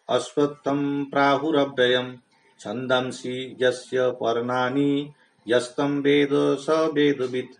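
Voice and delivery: slow, measured chant of the Sanskrit verse; slow devotional Sanskrit recitation; scriptural recitation. Shown as a demonstration.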